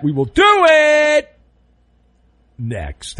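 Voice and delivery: ramp up to the break; announcer tease. Acted. Host teasing the next segment, big build then drop. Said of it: "tease to break".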